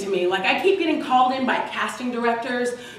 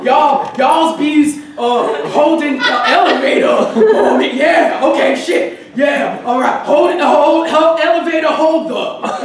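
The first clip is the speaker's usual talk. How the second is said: louder, slow exaggerated drawl; blacker voice attempt; 5 dB louder, slower than usual. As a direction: ham up the bad grammar. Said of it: "Bad grammar".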